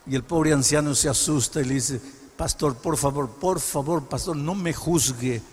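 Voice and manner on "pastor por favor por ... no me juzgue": scared pleading. Acted. Elder caught with beer begging.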